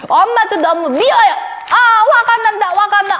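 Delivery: cross little character building to an outburst; angry 내 마음이. Acted. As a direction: whine and fume like a wronged child. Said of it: "오늘 내 마음의 표정이 또 안 좋은".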